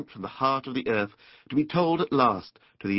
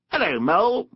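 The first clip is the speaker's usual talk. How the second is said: higher-pitched rat's greeting; hailing water rat; 8 semitones higher, 4 dB louder than usual. A narrator's reading. Rat greets Mole across the river, hailing. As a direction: call a hello across to a new acquaintance.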